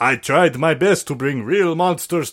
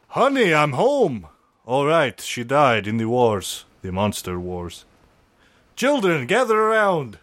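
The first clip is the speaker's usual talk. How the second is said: sitcom dad. Acted. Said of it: "Dracula Knows Best".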